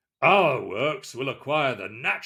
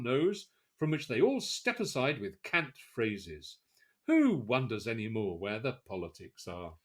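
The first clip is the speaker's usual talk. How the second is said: scornful retort. Retold or imitated. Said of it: "To which I say".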